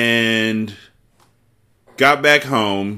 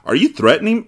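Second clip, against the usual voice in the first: involuntarily rising, higher question; voice going up; 7 semitones higher, faster than usual. Shown as a demonstration. Reader retrying the threat line, voice going up. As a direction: try the line straight but let pitch creep up. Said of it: "Even then, my voice is going up".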